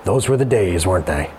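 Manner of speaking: put-on low, gently said remark of an older man; mildly sweet, trailing down low; sweet, wistful comment. A narrator's reading. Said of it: "heard him comment sweetly".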